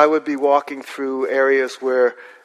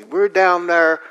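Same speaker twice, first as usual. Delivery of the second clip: rural local; 4 semitones higher than usual. Retold or imitated. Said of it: "They'd say".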